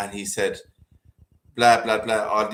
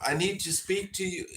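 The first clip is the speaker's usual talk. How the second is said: higher, softer imitation of a faked American accent; badly put-on American accent; 6 semitones higher, 6 dB quieter than usual. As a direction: imitate an Indian caller faking American. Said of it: "really putting on a really bad American accent".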